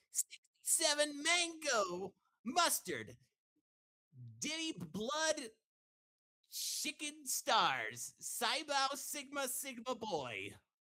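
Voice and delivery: very high, loud, cartoony character voice. Reading out a viewer request line: Sonic's voice. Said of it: "first in Sonic's voice".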